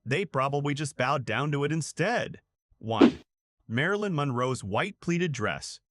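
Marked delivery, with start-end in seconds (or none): 2.8-3.2 loud countdown call; announcing loudly. Real, not acted. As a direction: call out the number. Countdown number called out.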